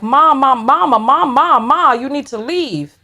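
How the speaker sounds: lightly voiced kids calling for mom; imitating pleading kids. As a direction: call "mom" over and over in a singsong plea. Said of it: "one day the kids was like".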